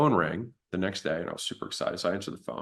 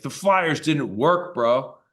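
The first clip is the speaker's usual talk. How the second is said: attitude; 5 semitones higher, 4 dB louder, much slower than usual. Retold or imitated. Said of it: "I kinda gave him that kinda attitude".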